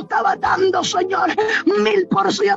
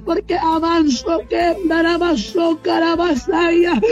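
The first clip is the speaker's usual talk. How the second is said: speaking in tongues. Real, not acted. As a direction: let the tongues pour out. Speaking in tongues mid-prayer.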